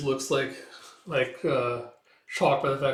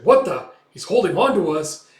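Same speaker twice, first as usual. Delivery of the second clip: high, loud shock; alarmed exclamation; 5 semitones higher, 9 dB louder than usual. Retold or imitated. Crew spots the pirate holding on, alarmed exclamation. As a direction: act out startled disbelief.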